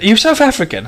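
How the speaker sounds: a hint of a chirpy American tourist; American accent. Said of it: "an American fucking, like, you know, Yank".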